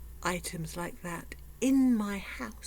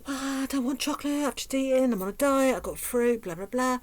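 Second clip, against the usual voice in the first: louder, brisk rattled-off excuses; dismissive excuses; 6 semitones higher, 5 dB louder, faster than usual. Retold or imitated. Answering the chocolate voice with a list of excuses, rattled off. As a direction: rattle off excuses without conviction. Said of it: "I listen to that voice".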